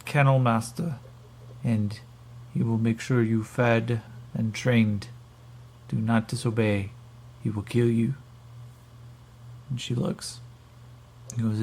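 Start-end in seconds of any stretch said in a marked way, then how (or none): 0.1-8.1 put-on Russian-accented captor warning a slave. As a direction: warn them in a Russian accent. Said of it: "the Alterans are now Russian".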